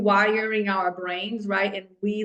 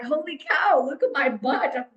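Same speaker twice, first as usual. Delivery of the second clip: delighted; 4 semitones higher than usual. Retold or imitated. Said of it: "I was like".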